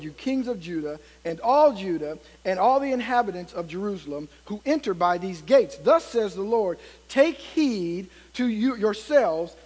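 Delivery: measured, emphatic Bible reading; scripture reading. Acted. Preacher reading Jeremiah to the congregation, emphatic scripture reading. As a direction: proclaim the verse phrase by phrase.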